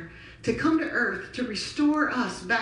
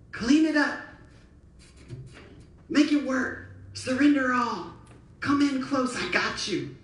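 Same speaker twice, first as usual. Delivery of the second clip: raised, urgent command easing at the end; voicing the Lord; 2 semitones higher than usual. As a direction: call the room to action.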